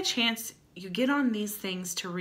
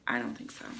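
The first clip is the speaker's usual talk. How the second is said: low deadpan dismissal; 9 semitones lower, 6 dB quieter, much faster than usual. Real, not acted. Vlogger dismissing a forgetful ad writer, low deadpan repeat. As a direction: drop low and quiet, deadpan.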